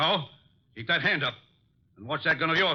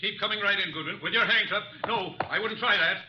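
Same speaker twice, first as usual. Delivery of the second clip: menacing gunman; 6 semitones higher than usual. Acted. Gunman takes them by surprise.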